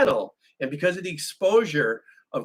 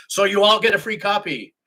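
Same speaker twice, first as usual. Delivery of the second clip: campy; 6 semitones higher, 5 dB louder than usual. Real, not acted. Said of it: "That sounded kinda campy".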